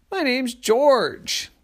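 high, slow drawn-out fish. Acted. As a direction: stretch it out like a fish. Fish introduces himself.

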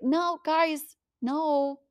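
a hint of God pleading with stubborn people; lightly voiced God warning. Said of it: "And he's like".

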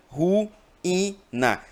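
ruína split as ru-í-na; syllable split. Shown as a demonstration. Teacher separates ruína into syllables for students, deliberately. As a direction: pull ruína apart into syllables. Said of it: "Se eu separo ruína".

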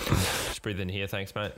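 slow, lightly voiced officer request; mock officer. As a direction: ask them to breathe in like a pretend officer. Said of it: "parking permit people".

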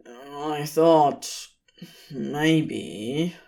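hesitant, fading off; embarrassed trailing off. Acted. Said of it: "he trailed off".

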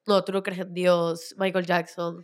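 low, slow eerie inner voice. Retold or imitated. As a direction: voice the creepy thought in your head. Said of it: "tu cabeza solita empieza a decir". (voz interior lenta y grave)

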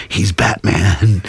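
slow, stretched-out payoff line; drawn-out reveal. Retold or imitated. Telling a mother about her son, slow drawn-out reveal. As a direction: draw the words out for the punchline. Callback to the boy's Batman line.

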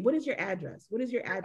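staying calm. Retold or imitated. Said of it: "trying to stay as calm as possible".

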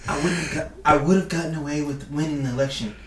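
Donald Trump voice, lightly done; a loose take on Trump's voice; Trump impression. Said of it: "this first one will be in a Trump accent".

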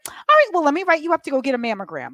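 high breezy doctor, brisk; lightly voiced brisk doctor. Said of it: "She's like".

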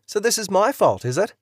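indignant retort. Acted. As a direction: fire the question back in disbelief. Couple quarrel in hospital.

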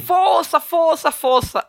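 high repeated rallying word, stepping down; rally them in quick mock cheers; imitated hearty encouragement. Uncle consoles everyone at the funeral, hearty encouragement.

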